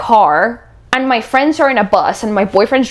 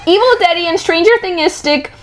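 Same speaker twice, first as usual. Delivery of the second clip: reading through laughter; 7 semitones higher than usual. Shown as a demonstration. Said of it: "I'm gonna try it again".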